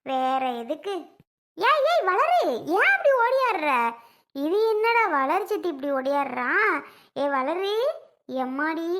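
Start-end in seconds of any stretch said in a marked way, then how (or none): 1.6-3.7 put-on high loud call after a running girl. Woman calls loudly after Valar running away. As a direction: shout to stop her running.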